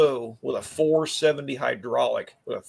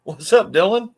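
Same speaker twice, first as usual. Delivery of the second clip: loud slurred Sloth from Goonies; 5 semitones higher, 5 dB louder than usual. Pretend. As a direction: bellow it like Sloth. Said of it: "In my best sloth voice".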